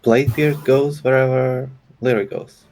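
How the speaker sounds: pirate voice. Acted. Player voices pirate character.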